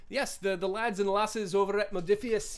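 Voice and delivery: a faint, half-hearted Scottish lilt; barely-there Scottish brogue for the British sponsors; bad Scottish accent. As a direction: toss in a lazy mock Scottish accent. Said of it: "That's my bad Scottish accent".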